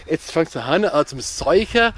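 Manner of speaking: broad Swabian dialect phrase; swabian accent. Shown as a demonstration. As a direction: say it in thick Swabian. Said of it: "auf Hochdeutsch".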